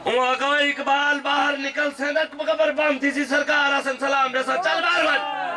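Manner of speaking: full-voiced rally preaching; kraftvolle Predigt. Real, not acted. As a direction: preach it out to a big crowd. Preaches to a crowd.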